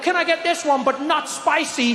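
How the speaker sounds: lightly hammed-up white friend ordering; mocking timid white diner. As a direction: ask for it mild, like a nervous tourist. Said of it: "they'll be like".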